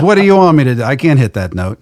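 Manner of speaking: a singer admitting defeat on stage, half-shouting; retold exasperated outburst. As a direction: throw up your hands in mock complaint. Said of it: "he goes".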